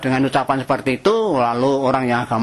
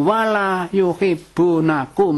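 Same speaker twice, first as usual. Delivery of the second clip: Quran recitation; 2 semitones higher, much slower than usual. Acted. Quran verse quoted in sermon.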